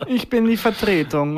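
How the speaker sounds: slow, cold Bond villain greeting; mock Bond villain. Imitating the driving examiner as a Bond villain, slow. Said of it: "redet wie ein Bond-Bösewicht".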